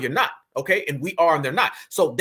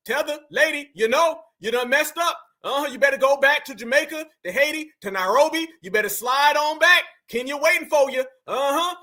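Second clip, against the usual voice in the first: mocking taunt; 7 semitones higher than usual. Real, not acted. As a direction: rub it in, half shouting. Taunting her to go back.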